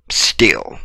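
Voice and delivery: whispered Still, soft and unvoiced. Shown as a demonstration. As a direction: breathe the word Still as a whisper. Repeated, dropping to whisper.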